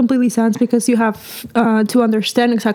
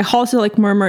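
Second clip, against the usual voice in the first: fast jargon; faster than usual. Real, not acted. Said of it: "Did you really just say holosystolic murmur".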